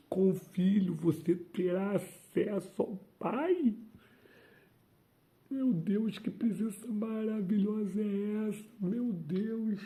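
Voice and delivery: preacher overwhelmed, crying out in rapture to viewers; ecstatic praise. Real, not acted. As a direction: cry out overcome by God's presence.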